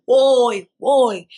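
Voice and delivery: put-on loud, high taunting "hey, hey, boy"; mocking laughing taunt; mocking laugh-call. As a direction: jeer at him like she's laughing. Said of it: "Big, heavy laughter".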